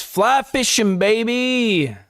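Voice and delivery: put-on high, sloppy drunk cheer; drunk Rick. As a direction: slur it out like a happy drunk. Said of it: "Rick, still drunk".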